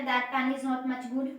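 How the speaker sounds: slow dictation pace; slow, word by word. Shown as a demonstration. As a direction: spell out each word slowly. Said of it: "क्या बताया?". (धीरे-धीरे, शब्द-शब्द बोलकर)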